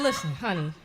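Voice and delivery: low-pitched, measured parental address; mock-patient parent; retold parent breaking news. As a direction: drop low before the blow. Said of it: "I said".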